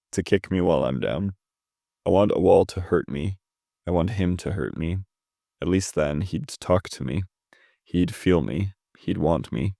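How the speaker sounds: measured, even poem recitation; understated reading of an intense poem. Acted. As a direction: read the verse line by line with short pauses. Reads a poem aloud.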